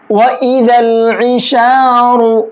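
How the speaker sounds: इशारु with a thick, full ra, drawn out; heavy ra. Shown as a demonstration. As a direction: recite इशारु slowly with heavy ra. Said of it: "रा को मोटा करके पढ़ेंगे".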